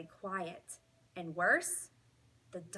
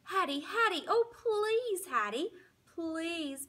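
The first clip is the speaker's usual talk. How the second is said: much higher, crying, begging whine; whining plea; 9 semitones higher than usual. Acted. Dog begging Hattie to serve his food, crying whine. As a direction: wail her name like a desperate pup. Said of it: "I whine some more".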